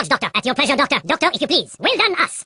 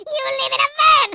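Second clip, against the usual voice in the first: mocking shout; 12 semitones higher than usual. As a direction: crow it over the fallen enemy. Taunting a defeated enemy.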